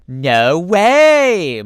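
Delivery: a loud, high gasp of wonder; bursting with disbelief; amazed. Acted. Fox amazed at the city, shouting in wonder.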